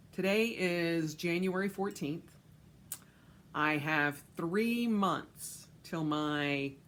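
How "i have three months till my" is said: talking into a cup. Real, not acted. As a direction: voice muffled by a cup. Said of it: "you can't tell I'm talking in my cup".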